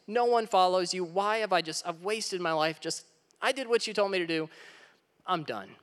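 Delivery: lightly acted weary despair, rising in bursts; despairing complaint. Elijah begs God to end it, mild despair. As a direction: let Elijah sound worn out and fed up. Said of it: "he cries out to God".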